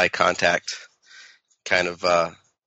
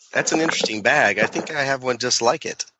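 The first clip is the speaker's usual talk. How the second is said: charming; 2 semitones higher than usual. Acted. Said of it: "my most charming".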